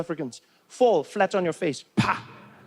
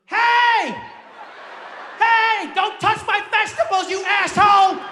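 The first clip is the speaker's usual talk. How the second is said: put-on old lady yelling; 13 semitones higher, slower than usual. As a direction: shriek at him like an outraged granny. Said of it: "she looked at me and she was like".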